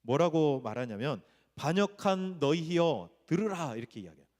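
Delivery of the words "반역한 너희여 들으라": slow, drawn-out rebuke, pitched higher; angry proclamation. Acted. Moses rebuking the people at Meribah, angry proclamation. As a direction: proclaim it like an angry leader addressing rebels. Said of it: "이렇게 화를 내면서 말한 거예요".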